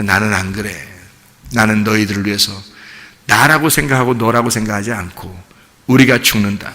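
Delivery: low, hushed, earnest reassurance; tender assurance. Acted. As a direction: speak softly as a self-giving teacher. Jesus speaking tenderly to disciples. (낮고 조용하게 타이르는 진심 어린 말투)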